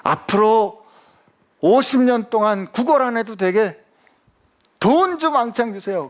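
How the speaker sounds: mock begging request. Imagined beggar asks Jesus for money, high mock plea.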